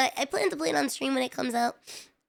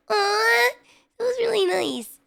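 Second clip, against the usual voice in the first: touched; 8 semitones higher, 3 dB louder, slower than usual. Real, not acted. Touched by kind gesture.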